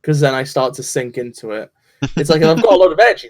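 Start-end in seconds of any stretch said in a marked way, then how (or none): 2.2-3.3 fast, louder energetic delivery; high energy voice. Shown as a demonstration. Showing how they sound when full of energy, fast and loud. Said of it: "then I sound like this".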